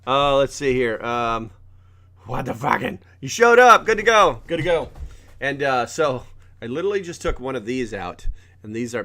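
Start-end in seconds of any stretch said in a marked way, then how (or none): 3.2-4.9 high, loud happy yelp; excited greeting. Real, not acted. Greeting the dog arriving, high and loud. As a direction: greet her with delight.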